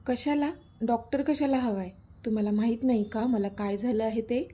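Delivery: a mild, understated snap of annoyance; lightly voiced resentful retort; irritated. Daughter rebuffing mother's doctor offer, mildly irritated. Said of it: "युविकाने चिडून तिच्या आईकडे पाहून विचारलं".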